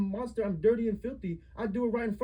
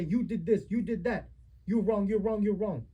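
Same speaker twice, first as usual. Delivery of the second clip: louder, bossy mocking accusation; mimicking a dictator; 4 dB louder than usual. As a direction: hammer the blame like a tyrant parent. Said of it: "You're the one as dictator say".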